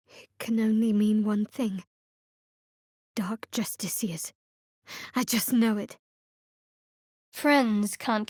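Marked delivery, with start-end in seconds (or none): 3.2-4.3 a hushed, wary whisper; ominous whisper. Acted. Cleric warning companions of Shar's zealots, ominous whisper. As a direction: breathe the name like a secret.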